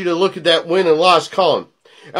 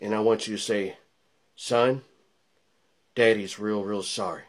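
menacing hush; 12 semitones lower, 12 dB quieter than usual. Acted. Promo ends in hushed threat.

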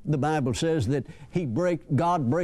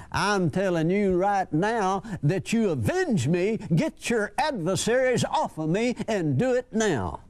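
a mildly squeaky, insistent widow making demands; demanding widow; 3 semitones higher than usual. Retold or imitated. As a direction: press the judge like a pushy old widow. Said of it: "that squeaky voice".

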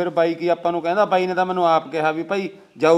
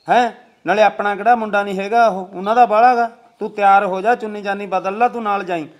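raised voice, insistent; talking too loudly; 4 dB louder than usual. Acted. Urging her to get ready and come along, loudly. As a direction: press the point louder, voice carrying. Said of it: "ਕਾਹਨੂੰ ਇੰਨੀ ਉੱਚੀ ਬੋਲਦਾ ਹੈਗਾ?".

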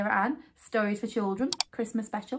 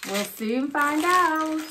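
Santa voice; 2 semitones higher, much slower than usual. Pretend. Santa toy voice answering.

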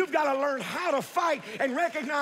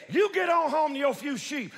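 mocking; 3 semitones higher than usual. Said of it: "So they mocked him".

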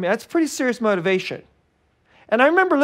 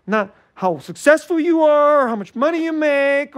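rising fervour; 8 semitones higher, 4 dB louder than usual. Real, not acted. Preacher rising emphasis.

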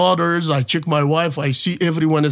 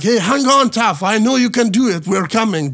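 higher, raised voice urging someone on; retold encouraging call; 5 semitones higher, 3 dB louder than usual. Chad calling to his drowning friend, retold urging call. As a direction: imitate a rescuer calling out encouragement.

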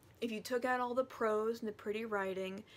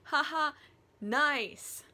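loud, higher fake "ha ha"; mock amusement; 5 semitones higher, 7 dB louder, slower than usual. Friends laughing off Humbert's confession, mock amusement.

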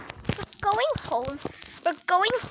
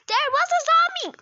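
urgent warning; 9 semitones higher, 4 dB louder, faster than usual. Acted. Telling the principal.

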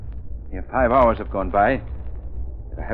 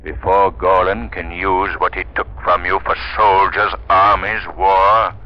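rising vow; 4 dB louder, slower than usual. Acted. Vow building in force.

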